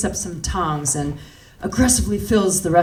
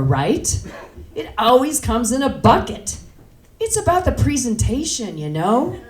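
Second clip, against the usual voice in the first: higher-pitched, lively appeal; wheedling explanation; 4 semitones higher than usual. Acted. Customer explaining buckets to the clerk, higher and insistent. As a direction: make the case, pitch climbing.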